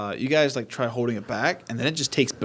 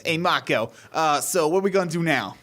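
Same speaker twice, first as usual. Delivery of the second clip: greaser voice; 4 semitones higher than usual. Acted. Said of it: "this is his official voice".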